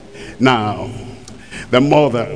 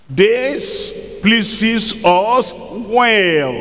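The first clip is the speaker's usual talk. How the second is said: very slow, higher, drawn-out; mock self-satisfied members; 4 semitones higher, much slower than usual. Members brushing off their pastor, slow and smug. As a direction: drawl it out like smug church members.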